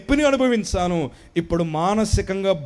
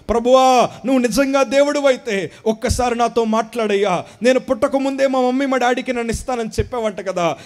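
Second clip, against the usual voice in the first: pleading prayer; 5 semitones higher, 3 dB louder than usual. Retold or imitated. Retold desperate prayer to God.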